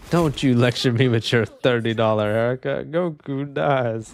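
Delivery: a tough-guy Italian snapping back; New York Italian accent. Retold or imitated. Streamer quoting a line in a mock New York Italian voice. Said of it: "my New York brothers".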